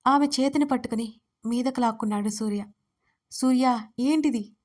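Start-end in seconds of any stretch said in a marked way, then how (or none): 3.3-4.5 a mild acted angry cry; angry shout. Dharani cries out angrily as Suriya pulls her close. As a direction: snap at him, half-shouted. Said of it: "కోపంగా అరిచింది".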